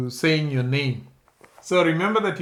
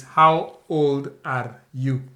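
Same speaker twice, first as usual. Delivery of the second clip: slow model phrase; 4 dB louder, slower than usual. Shown as a demonstration. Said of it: "the last thing we shall say is".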